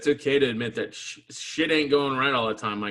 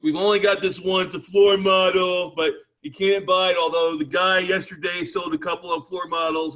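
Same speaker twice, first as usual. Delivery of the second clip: a lightly voiced store clerk, higher and louder; mock salesman, a touch pushy; 4 semitones higher, 6 dB louder than usual. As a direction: mimic the clerk a little over the top. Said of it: "The guy's like".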